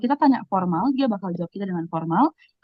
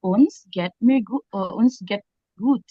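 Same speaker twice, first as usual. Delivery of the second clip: slow take that slips to "Uns geht mir gu-" before fixing it; mistaken phrasing; much slower than usual. Shown as a demonstration. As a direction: stumble through the wrong version slowly. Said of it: "Oh my God, aku lupa". (ucapan keliru yang pelan dan tersendat)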